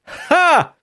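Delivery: high playful ha; a bright hammed-up ha; mock demon ha. Shown as a demonstration. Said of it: "That would be so much better".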